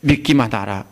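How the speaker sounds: firm reassuring command; Jesus assuring the father; voicing Jesus. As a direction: assure the ruler, rising on fear. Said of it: "이 소리입니다".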